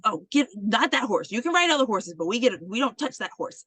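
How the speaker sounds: mildly alarmed retold teacher; urgent warning. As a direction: hurriedly warn someone off. Teacher rushes in, warns girl.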